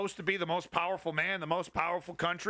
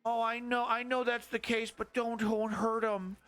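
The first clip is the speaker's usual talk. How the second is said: high, pleading mock of a cowardly president; hammed-up timid president voice; mocking whiny Biden; 5 semitones higher than usual. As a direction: squeak it higher and higher like a scared leader.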